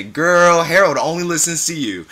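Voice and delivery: put-on high, loud girlfriend's tease; teasing exclamation. A narrator's reading. Co-worker teases mother about Harold, high loud exclamation. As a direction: draw out a big, high "girl".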